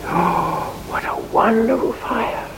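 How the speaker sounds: grateful. Acted. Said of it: "people are grateful and say".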